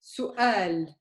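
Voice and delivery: Su'al broken by a mid-word glottal stop. Shown as a demonstration. Teacher giving a mid-word hamza example, glottal break. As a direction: cut Su'al between u and a. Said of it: "in the middle of the word".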